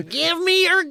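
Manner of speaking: put-on Jewish accent. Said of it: "I'm trying to do a Jewish accent".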